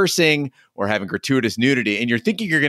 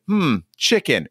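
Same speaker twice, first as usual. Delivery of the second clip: imitating dad; 5 semitones higher, slower than usual. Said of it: "he's like".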